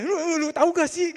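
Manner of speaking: wife's inner exasperation. Retold or imitated. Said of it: "Padahal dalam hatinya".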